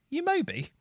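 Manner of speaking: high accusing question; drunken challenge. Retold or imitated. Co-host retells drunkenly confronting a bald man. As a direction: slur it at a stranger.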